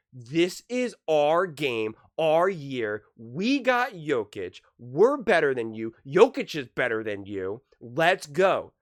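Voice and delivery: acting out a boastful rival team, drawn-out and punchy; cocky team voice. Serbia team taunting Team USA as if winning, cocky. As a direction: mimic a team sure it is winning. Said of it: "It was more like".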